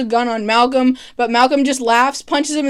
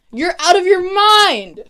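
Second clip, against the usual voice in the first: higher mock-outraged exclamation; retold outrage; 7 semitones higher than usual. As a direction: act out an incredulous, angry retort. Tommy's angry retort, retold.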